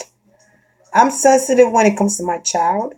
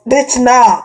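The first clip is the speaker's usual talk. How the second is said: dismissive; 3 semitones higher, 3 dB louder than usual. Shown as a demonstration. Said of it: "I'm putting stops like this".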